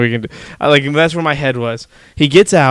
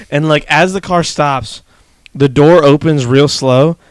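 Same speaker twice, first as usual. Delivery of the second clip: ordinary talk, nothing marked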